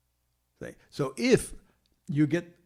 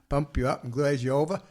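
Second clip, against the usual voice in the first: laughing retake. Shown as a demonstration. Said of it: "I was shooting for Australian".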